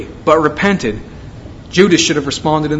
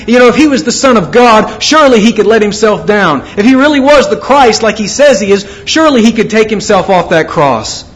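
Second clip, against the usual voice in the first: lightly acted taunt, raised at first; mocking; 3 semitones higher than usual. Onlookers taunting Jesus on the cross, mocking. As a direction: jeer mildly, as onlookers goading him. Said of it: "people who were mocking him".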